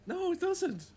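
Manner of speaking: very high, squeaky no; a sudden very high, squeaky protest; squeaky rebuttal. Real, not acted. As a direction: shoot the claim down in a squeak. Rebutting the ad claim.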